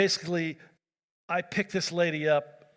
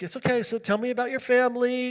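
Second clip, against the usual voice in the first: imitated reassurance; 6 semitones higher than usual. Calming the woman who is in shock.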